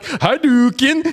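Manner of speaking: a light impression of a Swedish guy yelling a move name; Swedish monk Hadouken. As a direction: stretch it out like a mountain monk casting a fireball. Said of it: "This fucking Swedish guy, like".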